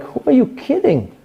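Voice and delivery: scoffing Israelites. Retold or imitated. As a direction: scoff at the idea of leaving. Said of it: "they were like".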